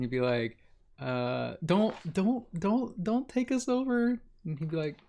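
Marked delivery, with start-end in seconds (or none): 1.6-4.2 high, slow hammed-up begging; mock pleading. A sailor begging the pirate not to board, high mock plea. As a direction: whimper it out like a helpless damsel.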